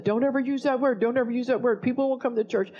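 upset objection. Retold or imitated. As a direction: mimic alarmed church members protesting. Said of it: "They were upset".

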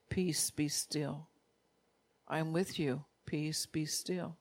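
slow, hushed whisper of God's voice; still small voice. Pretend. Preacher voicing God's still small voice to the troubled, slow and hushed. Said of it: "that still small voice that says".

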